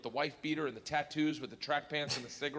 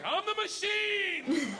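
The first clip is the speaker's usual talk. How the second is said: higher, louder and slow, each word drawn out; proud slow declaration; 5 dB louder, much slower than usual. Retold or imitated. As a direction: announce it like a boast. Repeating the phrase to gangster.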